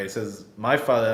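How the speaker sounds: "My" weighted, falling on "father"; mild emphasis on "My"; stress on my. Shown as a demonstration. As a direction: hit "My" in "My father". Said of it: "He says it in this way".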